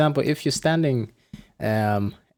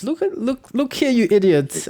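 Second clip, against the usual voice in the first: mock coach yell; 10 semitones higher than usual. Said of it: "a person that will dissect that message".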